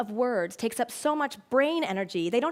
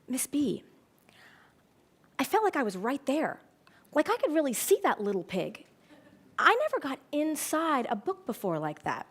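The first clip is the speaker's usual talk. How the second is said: lightly voiced little boy, full of wonder; Joey; 3 semitones higher than usual. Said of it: "a little boy named Joey tugged on my sleeve, and he said".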